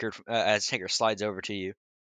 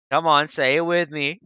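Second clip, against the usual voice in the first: loud mock parent coaxing; scolding a child; 3 semitones higher, 8 dB louder, slower than usual. DM teases like a parent prompting a child to apologize. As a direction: coax it like a parent to a toddler. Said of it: "like talking to a child".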